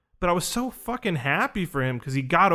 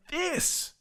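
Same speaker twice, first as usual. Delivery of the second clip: high-pitched, exasperated squeak of protest; retold helpless frustration; imitated frustrated outburst; 13 semitones higher, 4 dB quieter than usual. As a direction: mimic his exasperation way up high. Imitating frustrated man's answer.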